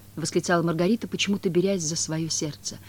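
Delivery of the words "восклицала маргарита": ordinary delivery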